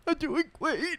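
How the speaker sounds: put-on very high, choked little-kid voice; Jasper impression. Little cousin claiming he's fine, high mock-tearful squeak. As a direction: imitate a child holding back tears. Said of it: "really trying not to cry".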